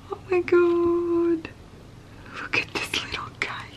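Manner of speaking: delighted. Real, not acted. Sees cute stickers.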